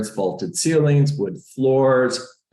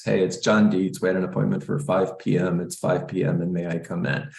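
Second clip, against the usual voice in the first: bored monotone mumble of the script, trailing off softer; the way most agents mumble the door script, flat and dull; flat, dull delivery; 3 semitones lower, 3 dB quieter, faster than usual. Shown as a demonstration. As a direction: sound like you don't care to be there. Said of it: "Most people talk like this".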